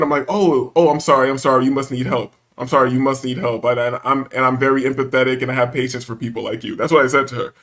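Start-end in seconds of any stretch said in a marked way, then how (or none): 0.3-6.7 lower, measured mock apology; very calm. Man answering the clerk's provocation, very calmly. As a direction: play patient and empathetic, settling lower. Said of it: "very calm mood".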